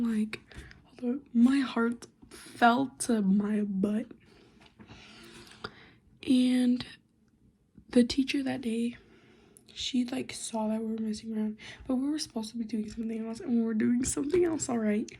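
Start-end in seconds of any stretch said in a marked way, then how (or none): 6.3-11.6 whisper. Real, not acted. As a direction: whisper so nobody nearby hears. Whispering the story.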